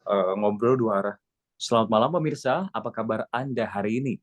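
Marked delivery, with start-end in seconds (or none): 1.6-4.1 warm two-way greeting, a real question; conversational anchor greeting; asking the viewer. Shown as a demonstration. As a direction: genuinely ask how they are. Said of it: "pengen bertanya".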